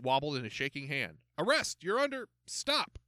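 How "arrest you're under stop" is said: panicked high yell at a stranger; jumpy rookie cop yells, pitch shooting up. A narrator's reading. Nervous rookie officer yelling at his own chief, startled shout. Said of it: "he yelled".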